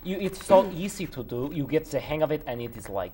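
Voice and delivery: put-on enthusing in a Russian accent. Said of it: "speaking in the Russian accent".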